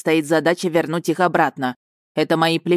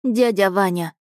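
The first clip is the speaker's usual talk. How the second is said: slightly trembling; 3 semitones higher than usual. Acted. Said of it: "слегка дрожащим от волнения голосом".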